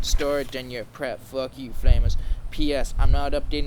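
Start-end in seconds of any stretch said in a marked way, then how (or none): 1.7-3.7 loud mock-indignant shout of the word; hammed-up angry yell. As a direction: hurl it at the critics. Author's note ranting at critics.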